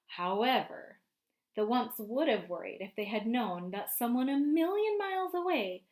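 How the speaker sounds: lively storybook narration for a class; picture book read-aloud voice; reading to children. A narrator's reading. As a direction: read it out to the kids, painting the scene. Teacher reads picture book aloud.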